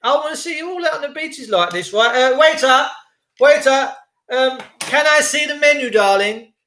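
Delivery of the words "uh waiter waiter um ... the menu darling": higher, lilting lady calling the waiter; lightly voiced posh woman; posh lady diner. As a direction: ham up a grand lady ordering. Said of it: "I'm a woman now".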